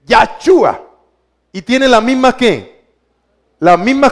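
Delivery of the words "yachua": Yachua said as "ya-CHU-a"; Yachua, set apart, opening on "ya"; vowel variant. Shown as a demonstration. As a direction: put an "a" in the first syllable of Yachua. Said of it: "Y podés decir".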